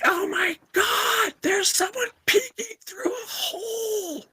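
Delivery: high, shrieking cry of a frightened woman; panicked woman screaming. Retold or imitated. Customer in the dressing room shrieking in panic. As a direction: shriek it like she just spotted an eye. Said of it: "She's like".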